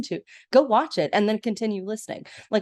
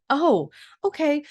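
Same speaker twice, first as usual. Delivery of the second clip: silly stepsister voice; 7 semitones higher, 4 dB louder than usual. Retold or imitated. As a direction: drag it out high like a clueless stepsister. Minerva answering the prince.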